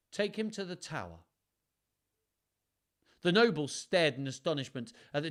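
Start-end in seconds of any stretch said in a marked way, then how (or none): 0.1-1.2 commanding king. Acted. King arrests traitor.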